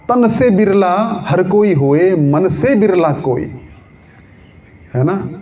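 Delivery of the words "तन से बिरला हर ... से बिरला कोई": slow, drawn-out couplet, starting high; verse recitation. Acted. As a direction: recite the couplet with long vowels. Kabir का दोहा सुनाते हैं. (दोहा पाठ, धीमे खींचकर)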